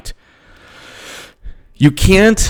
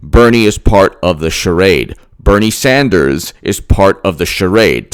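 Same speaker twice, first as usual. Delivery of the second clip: slow, deliberate, every word spelled out; said slowly. Shown as a demonstration. Driving home his claim to viewers, slow and deliberate. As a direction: lay it down word by word. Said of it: "say it slowly".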